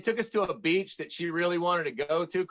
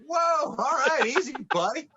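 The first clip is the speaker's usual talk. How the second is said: mock startled; 8 semitones higher, 3 dB louder than usual. Blunt "no" startles him.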